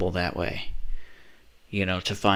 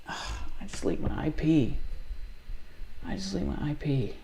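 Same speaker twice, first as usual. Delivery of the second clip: stunned; 4 semitones higher, 8 dB quieter than usual. Real, not acted. Realizing the leak.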